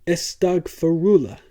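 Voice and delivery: loud, high cry to the sky; crying out to heaven. A narrator's reading. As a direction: call up to Allah at full voice. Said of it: "prayed toward heaven at the top of his voice".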